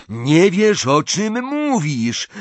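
high, loud furious protest; roared. A narrator's reading. Ron aims his wand at Ginny, roaring. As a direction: roar it at your sister. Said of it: "ryknął Ron".

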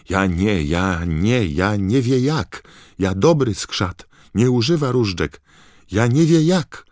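high, squeaky, panicked house-elf; terrified squeaky elf. A narrator's reading. The elf pleads her innocence, squeaking in panic. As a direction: squeal it out, desperate and scared. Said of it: "zaskrzeczał skrzat".

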